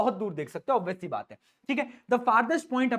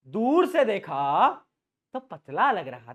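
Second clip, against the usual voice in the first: funny sing-song; slower than usual. Shown as a demonstration. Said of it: "ज्यादा funny हो जाता है".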